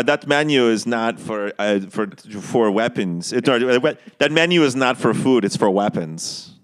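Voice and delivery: slow, halting vague Euro accent; amateur attempt at a Euro villain accent. Shown as a demonstration. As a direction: put on an indefinable European accent, drawing words out. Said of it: "Can you do a Euro accent".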